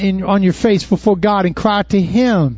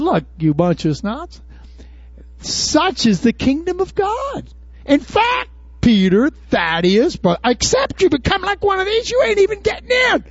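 teasing Jesus; 10 semitones higher than usual. Retold or imitated. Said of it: "And they said".

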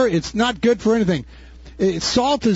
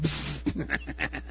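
breathy laugh; 3 semitones lower, 13 dB quieter than usual. Real, not acted. Laughs after bug voice.

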